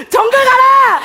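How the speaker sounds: loud, high command; shout. Acted. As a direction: yell the order.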